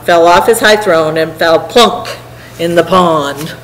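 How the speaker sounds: lively, rhythmic rhyming read-aloud; story narration. A narrator's reading. Reader telling a turtle tale to listeners, rhythmic narration. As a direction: read it to children in a bouncing verse rhythm.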